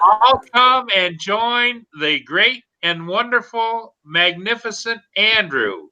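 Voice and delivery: slow, grand proclamation; town crier. Pretend. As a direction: announce it like a herald. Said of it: "I've got plenty of hear ye".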